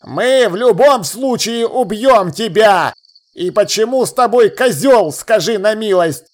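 slow, scornful elf voice; contemptuous elf lord. A narrator's reading. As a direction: belittle the boy and his goat. Elf lord threatens to kill. (презрительный эльфийский лорд)

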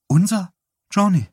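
high, incredulous question; stunned disbelief. A narrator's reading. Wife to husband on hearing of their son, stunned. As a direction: ask it stunned, pitch leaping up.

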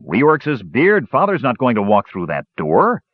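jolly him out of worrying; cheerful. A narrator's reading. Sturm urging his brother to relax, cheerful. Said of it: "his brother said cheerfully".

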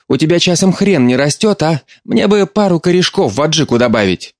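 a hint of a fussy mother offering food; mother busy at the stove, lightly voiced; mother's voice.

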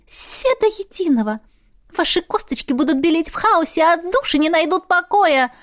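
high, far-off gleeful ghost voice, slowing at the end; a little ghost relishing their doom; gloating ghost Missi. A narrator's reading. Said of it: "Она злорадно улыбнулась". (злорадный высокий голос привидения)

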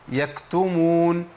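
يكتمون drawn out very slowly with breath flowing through the k; correct breathy k. Shown as a demonstration. Teacher demonstrating the right recitation. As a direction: let the air run on the k of يكتمون. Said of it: "لا".

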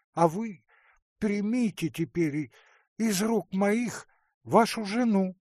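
aunt hands over the wife with fervour; insistent aunt. Acted. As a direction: press him until he gives in. Marya presses Lavretsky.

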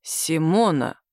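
slow and low, drawing out the name; slow, deliberate. Acted. Boss reads her business card, slowly saying her name. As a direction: weigh the name with dawning suspicion. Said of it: "медленно произнёс".

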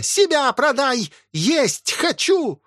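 very high, drawn-out shriek; shrieking old woman. Acted. Possessed old woman screaming from the house for food. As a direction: howl it like a possessed hag.

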